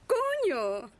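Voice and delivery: from a call into a full high shout of "coño"; building to a shout. Acted. Leading the crowd, rising into a full shout.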